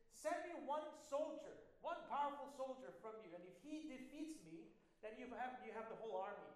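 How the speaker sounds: a preacher playing Goliath, taunting; taunting giant. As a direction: jeer at the whole army like a giant bully. Goliath's challenge continues.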